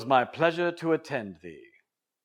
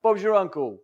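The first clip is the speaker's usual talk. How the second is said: mock Australian catchphrases; Australian accent; 3 dB louder than usual. Shown as a demonstration. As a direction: toss it off in a broad Australian accent. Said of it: "not sound Australian".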